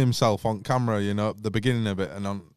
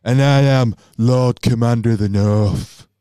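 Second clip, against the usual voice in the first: Jon Snow impression; 6 dB louder than usual. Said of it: "That's pretty good".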